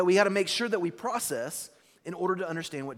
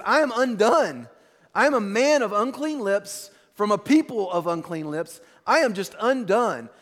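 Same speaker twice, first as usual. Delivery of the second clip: loud, raised preacher's cry; impassioned confession; 3 semitones higher, 6 dB louder than usual. Acted. Preacher voices Isaiah before the heavenly throne, impassioned. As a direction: declare it as a retold cry of ruin.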